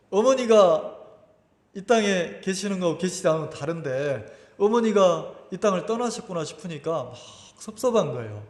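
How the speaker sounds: normal talking voice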